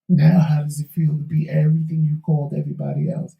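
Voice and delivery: hoarse, failing voice; losing voice. Real, not acted. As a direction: voice giving out, hoarse and breathy. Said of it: "I don't know why I'm losing my voice".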